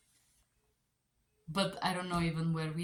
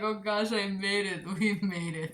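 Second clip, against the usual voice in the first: relieved exclaim; 3 semitones higher, 4 dB louder than usual. Retold or imitated. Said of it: "I'm like".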